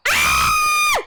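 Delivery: loud high scream; terrified scream. Real, not acted. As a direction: scream in real terror. Ghost hunt begins.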